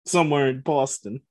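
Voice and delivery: playful attempt at a Boston accent; slightly hesitant fake Boston accent. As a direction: introduce yourself in a mock Boston accent. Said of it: "do our best Boston accent".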